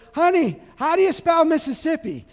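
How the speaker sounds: lightly voiced husband at his desk; husband asking.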